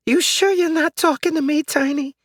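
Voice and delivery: put-on high, puzzled old lady; confused old woman. Old neighbor still thinking the dog talks, high and puzzled. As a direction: ask it bewildered.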